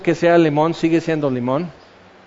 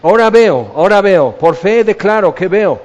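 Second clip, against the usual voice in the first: mock faith declaration, slightly louder; declaring by faith; 3 dB louder than usual. Blind man trying to declare himself healed, emphatic declaring. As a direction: insist on it as an emphatic claim. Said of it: "voy a declarar por fe".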